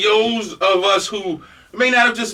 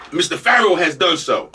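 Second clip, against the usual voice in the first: ordinary talk, nothing marked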